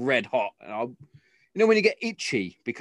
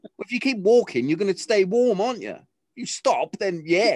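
exasperated lecture; 8 semitones higher, 5 dB louder than usual. Retold or imitated. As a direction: argue back loudly as a fed-up dad. Dad lecturing complaining daughter.

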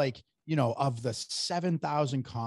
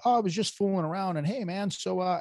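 backpedaling troll; 6 semitones higher than usual. Retold or imitated. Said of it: "it turns into".

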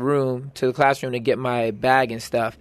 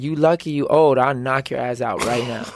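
tough guy threat; 2 semitones lower than usual. Retold or imitated. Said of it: "With that voice?".

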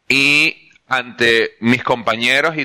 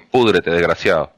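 mock curse; 10 semitones lower than usual. Maldición burlona contra Ocon.

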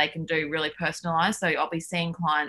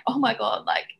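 higher-pitched mock-tearful fretting; retold tearful panic; 6 semitones higher than usual. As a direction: act out getting overwhelmed and weepy. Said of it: "I started crying, just being like".

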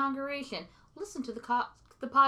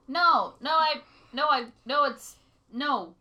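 frantic no; 3 semitones higher, 5 dB louder than usual. Acted. Panicked refusal in a bit.

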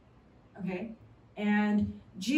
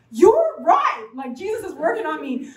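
bright, louder burst of agreement; excited reply; 3 semitones higher, 5 dB louder than usual. Retold or imitated. Replying eagerly to a friend's compliment, excited. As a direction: agree eagerly, then ease off. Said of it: "And I was like".

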